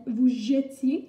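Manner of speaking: slow "jetiez", said "jeu-tiez"; careful "jetiez" with no è; E as schwa. Shown as a demonstration. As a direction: draw out "jetiez" with "euh" in the first syllable. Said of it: "on prononce le E".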